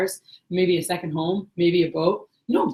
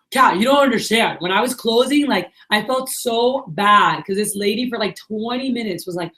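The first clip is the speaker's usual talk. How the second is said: higher-pitched imitated protest; upset, retold; 3 semitones higher than usual. Upset sales rep explaining to the manager, imitated distress. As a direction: act out an agitated rep pleading to be understood. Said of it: "why are you upset right now?".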